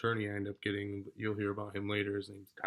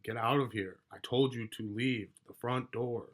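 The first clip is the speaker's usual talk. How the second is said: retold anger, mildly raised voice; mad order; 2 semitones higher than usual. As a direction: lay down the order with restrained anger. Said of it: "I'm mad now".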